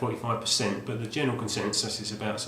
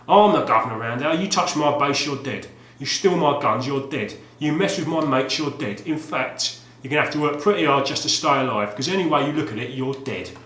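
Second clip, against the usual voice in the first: hammed-up hard man; 3 semitones higher, 6 dB louder than usual. Reading the game box threat aloud, hammed-up. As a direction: threaten the player like a tough-guy mascot. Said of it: "it might take a bit of acting".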